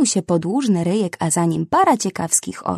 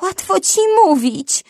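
much higher, panicky retort; scared rhino panting back at the parrot; frightened panting; 13 semitones higher, 4 dB louder than usual. A narrator's reading. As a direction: gasp it out in fright. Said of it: "sapnęła przestraszona Papti".

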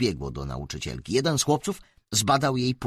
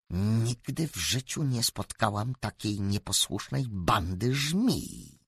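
snarl. Acted. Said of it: "warknęła".

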